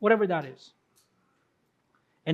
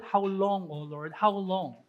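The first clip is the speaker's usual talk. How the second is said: soft, much softer lament, sinking low; David's lament; 4 semitones lower, 6 dB quieter, slower than usual. Retold or imitated. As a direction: murmur the plea as if worn out. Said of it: "he says, paulit-ulit". (mahinang panaghoy, halos bulong)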